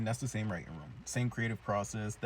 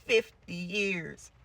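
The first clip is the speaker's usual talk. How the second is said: much higher, drawn-out teacher's lament; crazed Miss Keen; 10 semitones higher, 5 dB louder, much slower than usual. Acted. Broken teacher on how long they were gone, slow high wail. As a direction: stretch every word into an unhinged wail. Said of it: "She goes".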